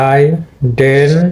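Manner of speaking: আইডেন্টিফাই slow, the আই set apart; slow model word. Shown as a demonstration. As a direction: separate আই in আইডেন্টিফাই slowly. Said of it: "আইটা তোমার separate হয়েছে". (আই আলাদা করে ধীরে আইডেন্টিফাই)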